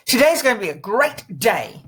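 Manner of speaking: lively, punched-up declaration; upbeat variation. Shown as a demonstration. Coach changing it up before the mirror, upbeat. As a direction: punch it out with enthusiasm. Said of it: "Change it up".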